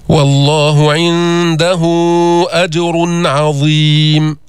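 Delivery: chanted, drawn-out tajweed recitation; slow Quran recitation. Shown as a demonstration. Teacher recites the verse as a tajweed model. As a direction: recite slowly, heavy ر in أجر. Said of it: "فخمنا الراء، جبنا الإظهار".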